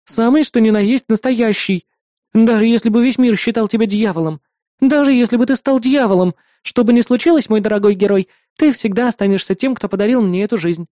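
put-on high, earnest girl's voice; devoted little sister. Sister telling her brother he will always be her hero, devoted. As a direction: pour out heartfelt devotion.

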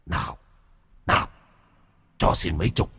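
eerie rising ghost voice begging for money; cackling ghoul. A narrator's reading. Ghost of Sinh begs terrified Mrs Năm for coins. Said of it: "Nó cứ thế cười khẳng khặc".

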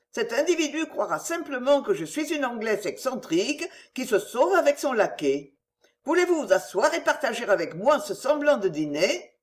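a gentle noblewoman begging him not to worry; Marguerite's voice. Acted.

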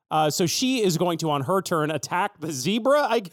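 ordinary talk, nothing marked

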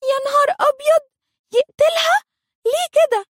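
hammed-up fright; terrified. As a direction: panic in a high put-on child voice. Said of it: "روكا في خوف شديد".

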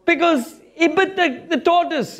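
usual speaking voice

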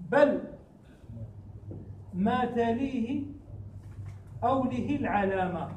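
slow, drawn-out chanted verse; verse recitation. Shown as a demonstration. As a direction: recite each word of the line slowly. Teacher recites verse of poem.

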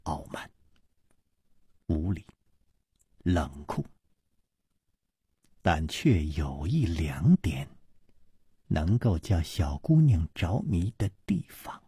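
put-on a cold young woman spells out his faults one by one; word by word. A narrator's reading. Woman sizes up Chu Liuxiang, measured words sinking to a whisper. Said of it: "一字字地说".

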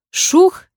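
high, loud whoosh for the splash; splash sound. A narrator's reading. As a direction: burst out a sharp splash noise. (резкий звук всплеска)

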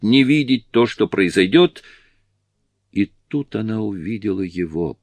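ordinary delivery

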